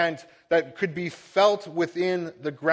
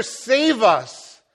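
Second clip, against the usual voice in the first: crowd yelling; 4 semitones higher, 6 dB louder than usual. Retold or imitated. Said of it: "It's no longer".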